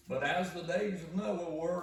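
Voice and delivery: high and loud, drawing out no one knows; ringing proclamation. Acted. Preacher voicing Jesus to the congregation, ringing proclamation. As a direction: proclaim it to the whole room.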